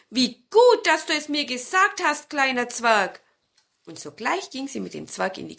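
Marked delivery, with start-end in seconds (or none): 0.1-3.2 put-on high, loud old woman's exclamation; grateful granny crying out in relief; grandmother calling out. A narrator's reading. Grandmother thanking the little dwarf, high and loud. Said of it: "rief die Großmutter".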